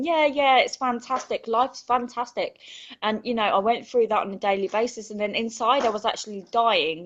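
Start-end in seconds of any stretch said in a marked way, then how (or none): 0.0-2.6 fake cheerful. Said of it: "hid behind this smile and just went".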